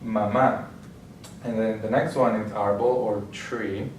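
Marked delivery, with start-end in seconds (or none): 0.0-0.7 mama stressed on the final MA; ma-MÁ, lean on the second syllable of mama; stress on last syllable. Shown as a demonstration. Teacher demonstrating a written accent, stress on last syllable. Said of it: "accent on the last syllable".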